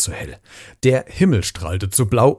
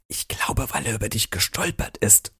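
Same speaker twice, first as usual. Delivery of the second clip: whispering aside to a friend; soft secretive whisper, then barely voiced; 7 dB quieter than usual. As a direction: hush it so Jim can't hear. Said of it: "flüsterte Nick Schlange zu".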